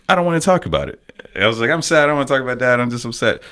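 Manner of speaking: put-on upset child. Retold upset child refusing his dad.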